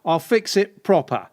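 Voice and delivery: working-class builder, pushed out. Pretend. Offering a client a repair, as a builder. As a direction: put on a handyman's matey patter. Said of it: "builder not doing it for you".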